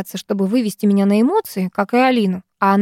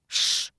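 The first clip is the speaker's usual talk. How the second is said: a sharp hushing hiss through the teeth; shushing hiss; 11 dB quieter than usual. Acted. Mother hushing her quarrelling daughters, sharp hiss. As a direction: hush them with an unvoiced hiss. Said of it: "зашипела мама".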